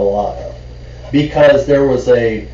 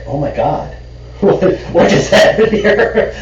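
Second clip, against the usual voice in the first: laughing disbelief; 9 semitones higher than usual. Retold or imitated. Reacting to the waiter refusing food orders, laughing in disbelief.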